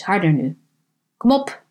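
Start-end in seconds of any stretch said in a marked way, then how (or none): 1.2-1.6 a lightly voiced old man urging the stuck door; mild coaxing push on "Kom op". Old man coaxing a stuck front door, mildly urging. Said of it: "moedigde hij het hout aan".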